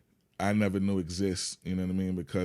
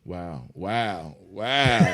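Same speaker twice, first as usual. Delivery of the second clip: astonished; 4 dB louder, much slower than usual. Real, not acted. Guest hit by an unexpected question, astonished. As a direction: let the amazement grow with each wow.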